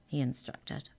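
usual speaking voice

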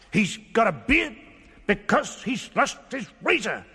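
unusual little mouse voice; a small mouse explaining. Acted. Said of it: "said the mouse".

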